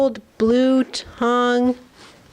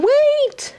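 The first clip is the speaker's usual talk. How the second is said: mock high shout. Animals cry out to stop the dingo, high mock shout. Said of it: "Are they saying".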